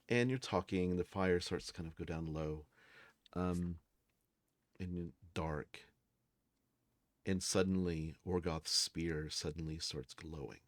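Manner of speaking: low, soft scene-setting; game master narration. A narrator's reading. Game master describes the dying campfire to players, hushed narration. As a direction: narrate quietly, letting suspense gather.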